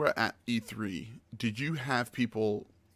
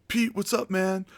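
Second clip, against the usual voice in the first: friendly shopper greeting; 9 semitones higher, 4 dB louder than usual. Retold or imitated. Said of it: "he's like".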